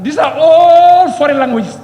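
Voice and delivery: slow, loud insistence on each word. Real, not acted. MP protesting to the Speaker, loud and insistent. MP arguing about colonial languages.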